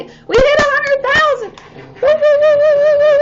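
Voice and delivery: high, loud whooping celebration; excited cheering. Real, not acted. Cheering her livestream viewers over a hundred thousand, excited whoops. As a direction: whoop it up for the milestone.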